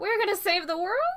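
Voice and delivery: jittery, very high-pitched. Giving an actor a note on how the line should go, nervous. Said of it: "I want more like nervousness".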